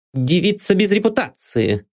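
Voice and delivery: high, cold sniff of contempt; cold scoff. A narrator's reading. Maid Anne scorns the dead woman. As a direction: sneer it coldly. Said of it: "холодно фыркнула Энн".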